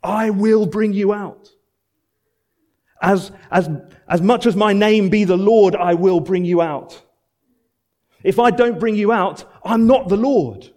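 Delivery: insistent preacher voicing God; voicing God's promise. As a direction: swear it like a king staking his name. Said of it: "It's as if he's signing his name".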